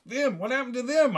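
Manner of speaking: high-pitched cry of horror; hammed-up horrified question; horrified yell. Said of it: "I yelled in, in horror".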